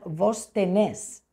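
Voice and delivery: "Vos tenés" lento, con el golpe en la última sílaba de "tenés"; acento argentino. Shown as a demonstration. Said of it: "En Argentina dirían". (con acento argentino, "tenés" lento y agudo)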